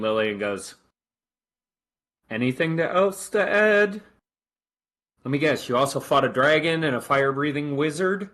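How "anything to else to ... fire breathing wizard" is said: higher, measured lieutenant's voice, slowing at the end; officer's voice. Acted.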